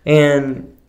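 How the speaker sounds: giggling through the words; high, loud laughing speech. Real, not acted. Telling funny story, cracking up.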